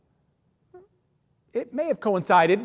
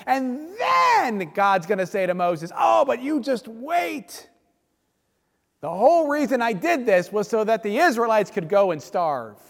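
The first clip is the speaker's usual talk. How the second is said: sarcastic punchline, pitched up; heavy sarcasm; 2 semitones higher than usual. Retold or imitated. Moses finishing his tirade about starving Israelites, sarcastic. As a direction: cap the mock rant with pointed sarcasm. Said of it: "an inordinate amount of sarcasm".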